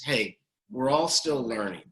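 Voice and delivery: slow, gentle reassurance; gentle mantra. Retold or imitated. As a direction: ease the child with a calm reminder.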